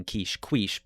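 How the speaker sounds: quiche said first as "keesh", then as "kweesh"; second quiche misread with a kw sound. Shown as a demonstration. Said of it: "It's sort of like calling".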